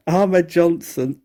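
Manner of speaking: laughing through the name, slowly. Real, not acted. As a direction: chuckle out the name Ahmed Johnson. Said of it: "I don't know why I'm laughing".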